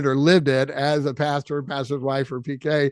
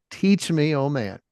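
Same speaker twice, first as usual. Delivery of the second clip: slow, lower, moved recitation; choked up reciting; 4 semitones lower, slower than usual. Real, not acted. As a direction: read it slowly, a little moved. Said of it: "I got choked up".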